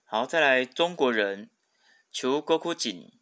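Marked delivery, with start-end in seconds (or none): 2.1-3.1 slow Japanese 中国人, chuugo-KU-jin, accented on ku; teacher's drawn-out model of 中国人 as "chuugoKUjin". Shown as a demonstration. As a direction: stress the ku when reading 中国人 as Chuugokujin. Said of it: "它的重音是在哭上面".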